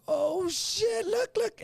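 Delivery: high, startled gasp at the cops; alarmed surprise. Retold or imitated. Driving past the store full of cops, shocked. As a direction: spot the cops and blurt it out in alarm. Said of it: "looking like".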